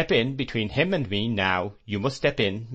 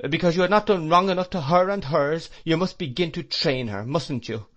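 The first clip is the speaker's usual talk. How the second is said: put-on fierce old aunt, sarcastic and high; mock his sweetness with scorn; 4 semitones higher, 4 dB louder than usual. Aunt mocking the stepfather's courtship, sarcastic.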